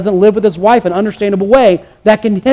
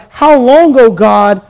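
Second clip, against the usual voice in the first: lamenting plea. Acted. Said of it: "This is asking God".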